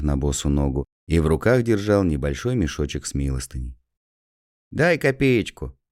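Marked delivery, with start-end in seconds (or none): 4.7-5.8 high, slow pleading for a coin; a cold beggar asking, high and slow; shivering beggar's plea. A narrator's reading. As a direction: beg for a kopeck, cold and smiling. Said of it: "дрожа от холода и улыбаясь".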